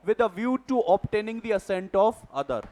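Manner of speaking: reading a legal definition out slowly, word by word; slow, deliberate dictation of a definition. Shown as a demonstration. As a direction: spell out the definition slowly for note-taking.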